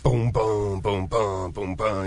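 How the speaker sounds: rhythmic booms bouncing ear to ear; imitated guitar chords. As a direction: mimic big open chords booming back and forth. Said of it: "open voice chords that go".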